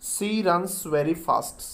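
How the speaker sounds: stretched out very slowly; very slow, clear dictation. Shown as a demonstration. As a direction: dictate the phrase slowly for writing. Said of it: "she दोबारा लिख लेते हैं".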